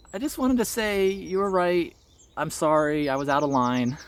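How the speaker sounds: lightly voiced small child; a hint of a child's sincere apology; child apologizing. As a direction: say sorry like a little kid.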